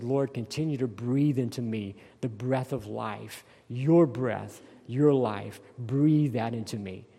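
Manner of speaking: quiet prayer. Shown as a demonstration. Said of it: "And so when I pray".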